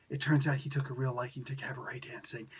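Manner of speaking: soft conspiratorial whisper; whispered aside. Real, not acted. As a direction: lean in and whisper the joke. Sarcastic aside about Grandpa.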